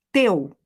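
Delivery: Teu with a crisp, pure T. Shown as a demonstration. Teu shown to Brazilian students with a pure T. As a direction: say Teu with a clean, unaspirated T. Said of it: "Olha o T do jeito que eu vou falar".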